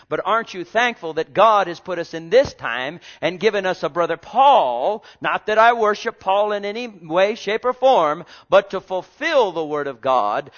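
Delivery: fervent preaching. Real, not acted. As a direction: preach it with rising fervor.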